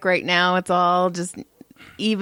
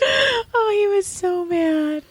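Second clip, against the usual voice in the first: high, slow, laughing through it; 12 semitones higher, slower than usual. Real, not acted. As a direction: squeak it out while laughing. Laughing at son's tantrum.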